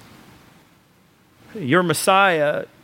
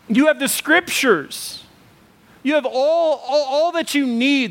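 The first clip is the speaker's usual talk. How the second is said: rising preaching fervour; 5 semitones higher than usual. Real, not acted. Preacher building to climax.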